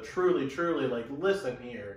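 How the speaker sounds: loud, insistent call for attention; mildly heated, hit the first words hard; getting heated. Acted. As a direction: press them to listen up. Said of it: "he's getting heated".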